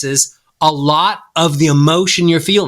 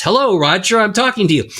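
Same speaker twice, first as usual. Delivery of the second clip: speaking into hands; 6 semitones higher than usual. Pretend. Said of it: "you'd speak like this".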